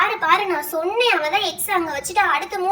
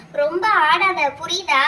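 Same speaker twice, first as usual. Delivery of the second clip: drawn-out, louder threat; slow warning; 3 dB louder, slower than usual. Acted. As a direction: lean on each word to warn them off, very slow. Warning the boastful opponent. (மெதுவாக அழுத்தி எச்சரிக்கை)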